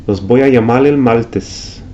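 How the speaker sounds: Puerto Rican l for r, llamal el maltes; Puerto Rican accent. Shown as a demonstration. Teacher imitating Puerto Rican r to l. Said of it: "pronounce the R ... like the L".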